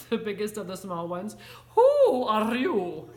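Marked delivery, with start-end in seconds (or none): 1.8-3.1 loud, slow, drawn-out demand; growled challenge. A narrator's reading. Biggest Chihuahua challenges the newcomer, lightly growled. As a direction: demand it like a small tough leader. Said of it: "growled Don Diego".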